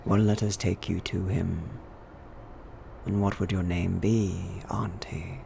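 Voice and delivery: a hushed, whispered question; hushed vicar. Acted. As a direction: lean in and quietly ask her name. Vicar asks name.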